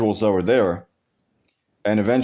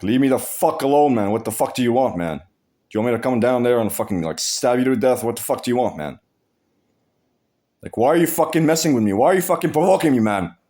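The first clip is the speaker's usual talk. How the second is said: retold yelling; faster than usual. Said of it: "I started shouting at him in his face".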